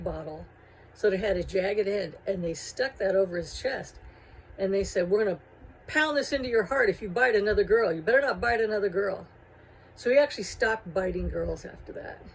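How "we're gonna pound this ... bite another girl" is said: louder, menacing warning; threatening. Retold or imitated. Gang members threaten Vamp after pinning him down, in a loud menacing warning. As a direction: threaten him and make it stick.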